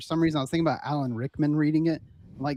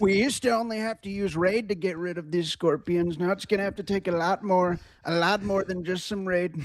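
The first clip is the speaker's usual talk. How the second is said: Trump impression. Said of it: "President Trump".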